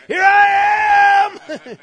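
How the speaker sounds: high, slow, laughing shout; eager shout. Acted. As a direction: call out eagerly while laughing. Answering the giant's call, shouting.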